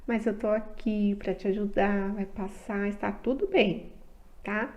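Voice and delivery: put-on soft, gentle words to a crying child; calm the little one down, softly; soothing mother. (mãe consolando o filho, com voz suave)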